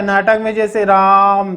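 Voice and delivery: राम stretched slowly as if calling someone; calling Raam. Shown as a demonstration. Teacher showing how a play calls a name, stretched. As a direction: call out राम with a long drawn vowel. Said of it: "इसका उच्चारण basically नाटक में होता है".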